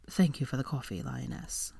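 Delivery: soft, smiling thanks. A narrator's reading. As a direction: thank her with a smile, gently. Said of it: "he said, smiling at her".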